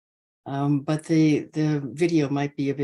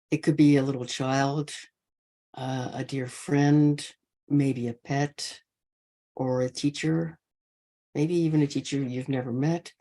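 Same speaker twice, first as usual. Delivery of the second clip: unhurried loving-kindness guidance, spaced by long pauses; guided meditation. Real, not acted. Teacher wishing all beings safe and happy, guided meditation. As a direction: offer each wish gently and let it rest.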